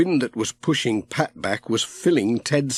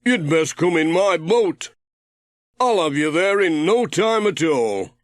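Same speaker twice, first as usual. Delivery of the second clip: higher, a bit louder friendly sailor; Ted, voiced higher; 6 semitones higher, 3 dB louder than usual. A narrator's reading. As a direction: call to Pat from the boat, curious. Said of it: "said Ted".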